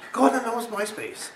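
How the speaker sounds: very high loud accusing voice; accusing friend. Retold or imitated. Friend phoning to accuse him of being the gnome, high loud. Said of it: "she's like".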